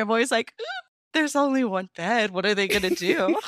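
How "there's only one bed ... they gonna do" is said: giddy fangirl. Retold or imitated. Gushing over the one-bed trope.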